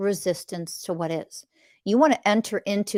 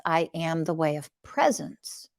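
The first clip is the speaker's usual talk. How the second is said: soft affirmation; 3 semitones lower, 6 dB quieter than usual. Shown as a demonstration. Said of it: "Think about what presence is".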